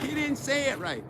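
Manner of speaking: high, snooty You didn't say it right; mocking commenter. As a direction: mimic a nitpicking commenter. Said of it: "comments like".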